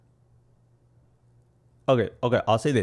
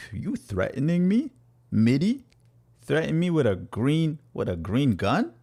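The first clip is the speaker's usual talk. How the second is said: mock shock; 7 semitones higher, 3 dB louder than usual. Mock alarm at chat message.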